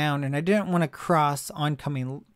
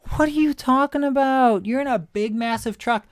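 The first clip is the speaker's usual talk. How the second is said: loud, much higher indignant comeback; mock outraged reply; 8 semitones higher, 4 dB louder than usual. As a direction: fire it back in disbelief. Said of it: "I'm like".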